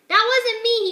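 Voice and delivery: high, loud flustered denial; mild embarrassed protest; cried out. Acted. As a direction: blurt it out, caught red-handed. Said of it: "he cried".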